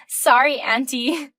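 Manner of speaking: an apology that means nothing; mocking laugh. Mistress laughing off her apology to the wife. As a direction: laugh first, then a flippant "Sorry, Auntie".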